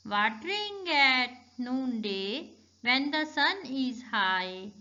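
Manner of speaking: slow, measured poem recitation. Shown as a demonstration. Teacher reciting A Watering Rhyme to students, slow recitation. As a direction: recite slowly, stretching words, pausing after each line. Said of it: "recite the poem".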